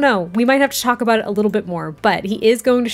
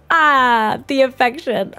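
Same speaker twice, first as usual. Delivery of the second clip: lightly voiced little kid, a bit higher; a hint of a cooing toddler, mock delight; toddler Felix; 4 semitones higher, 4 dB louder, slower than usual. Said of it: "Felix is like".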